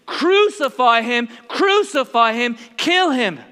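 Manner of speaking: slow, loud chant; mock crowd scream. Preacher voicing the mob before Pilate, loud angry chant. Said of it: "they begin to scream".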